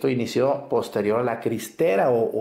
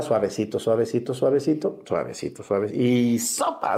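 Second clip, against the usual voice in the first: gentle rubbing. Shown as a demonstration. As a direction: croon it gently, then snap into y sopa. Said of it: "Primero soba".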